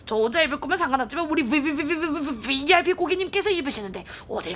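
polite saleswoman voice; smooth sales pitch; customer service voice. Acted. Voices shopkeeper NPC.

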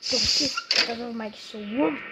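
a hint of an ogre shouting at Donkey; Shrek impression. Shown as a demonstration. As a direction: bellow it like Shrek. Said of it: "That's Shrek".

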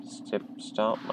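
unvoiced whispered stip stomp; whispered sneak. Real, not acted. Player sneaking through halls whispers softly. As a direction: tiptoe and whisper it.

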